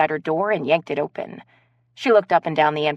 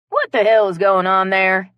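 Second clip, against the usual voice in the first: louder, demanding what's going on; raised-voice demand on the phone; agitated call; 2 semitones higher, 7 dB louder than usual. Acted. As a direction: burst in wanting answers. Friend calls, demanding, agitated.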